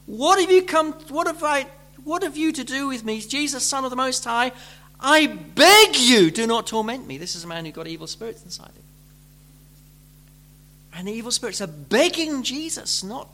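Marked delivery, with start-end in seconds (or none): 0.0-7.2 raised, pleading outcry; loud plea not to be tormented; loud desperate cry. Retold or imitated. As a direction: cry out to Jesus, begging. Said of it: "said in a loud voice".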